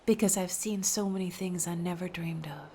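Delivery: soft unvoiced riddle exchange; hushed riddles. A narrator's reading. Sailor and sea maiden whispering riddles.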